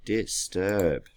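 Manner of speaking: "Disturb" parted as dis... turb; split into syllables. Shown as a demonstration. Teacher checks where the hyphen goes, "Disturb" in two parts. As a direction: leave a small gap inside "Disturb". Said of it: "It's two syllables".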